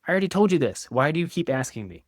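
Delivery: high, loud irritated retort; defensive reaction. Shown as a demonstration. To partner repeating a question, irritated defensive retort. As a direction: snap back, fed up. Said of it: "A defensive reaction is".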